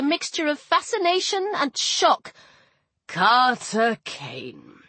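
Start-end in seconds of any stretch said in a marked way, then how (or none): 3.1-4.8 affectionate. Acted. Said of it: "Ra said with affection".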